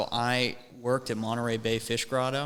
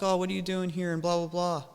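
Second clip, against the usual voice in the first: high, held-up chatty imitation; mock small talk; 7 semitones higher, faster than usual. Shopper retelling chat with his buddy, mock small talk. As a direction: skim through pleasantries in a raised voice.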